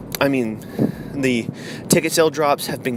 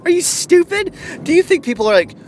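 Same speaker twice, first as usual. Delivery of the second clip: high, loud disbelieving rant; incredulous outrage; 11 semitones higher, 5 dB louder than usual. Acted. Vlogger berating the marketers, loud incredulous outrage. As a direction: protest shrilly at an idiotic idea.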